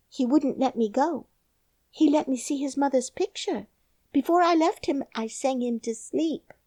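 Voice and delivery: put-on solemn little girl; young girl. A narrator's reading. Mary's girl voice.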